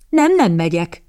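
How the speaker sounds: firm refusal, first word stressed; stubborn. A narrator's reading. Boy refuses to leave with captain, stubborn. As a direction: dig in obstinately. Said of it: "makacsolta meg magát a fiú".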